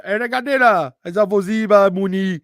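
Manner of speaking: loud, high Haitian Creole imitation; Haitian impression. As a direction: rattle it off loud in a mock Haitian accent. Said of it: "Haitian is just absolutely".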